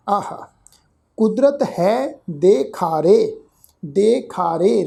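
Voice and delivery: slow, measured recitation of scripture. Shown as a demonstration. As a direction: lay out each word slowly so learners can follow. (धीमा, ठहरा हुआ पाठ)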